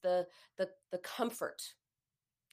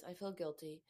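flat naming; 4 semitones lower, 10 dB quieter than usual. Shown as a demonstration. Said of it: "That's identifying it".

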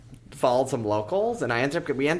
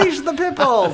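high loud evil order; villain voice; 13 semitones higher, 6 dB louder than usual. Retold or imitated. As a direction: command it like a villain. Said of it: "And they just, like".

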